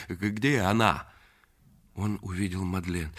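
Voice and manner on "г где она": winded, stumbling on the first sound; out of breath. Acted. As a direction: stammer it out while catching breath. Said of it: "с трудом переводя дыхание". (запыхавшись, с запинкой)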